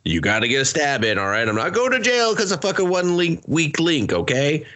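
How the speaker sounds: rally everyone to stab; mock cult leader. Cult leader ordering everyone to stab, mock bossy voice.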